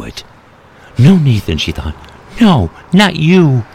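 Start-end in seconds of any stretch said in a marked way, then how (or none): 1.0-1.6 high, pleading no; wife seeing her husband dying, high anguished plea; anguished denial. Acted. She realizes he is dying. 2.4-3.6 high, slow, broken-hearted no; wife refusing to lose him, slow high anguish; anguished plea. Acted. She realizes he is dying.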